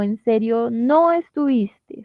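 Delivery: slow, weighted "no estuviste"; "no estuviste" spaced out for emphasis; clear emphasis. Shown as a demonstration. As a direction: lean on "no" in "no estuviste", slowly. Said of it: "se utiliza sobre todo para hacer énfasis".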